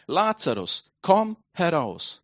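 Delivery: measured, commanding call, slowly drawn out; loud call. Acted. Jesus calls dead Lazarus out of the tomb, loud command. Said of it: "rief er mit lauter Stimme".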